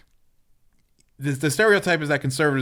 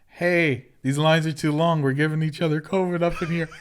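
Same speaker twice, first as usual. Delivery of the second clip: raised, mildly agitated retold complaint; mock freaking out; 3 semitones higher than usual. Retelling a customer's complaint in the store line, mock freaking out. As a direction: imitate a customer starting to freak out, pitched up a little. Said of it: "she starts freaking out".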